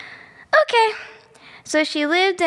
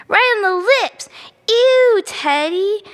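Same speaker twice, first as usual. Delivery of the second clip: higher, louder disgusted outburst; grossed-out yell; 5 semitones higher, 4 dB louder than usual. Real, not acted. Child telling Teddy about the kiss, loud and grossed out. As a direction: squeal it like kissing is the grossest thing.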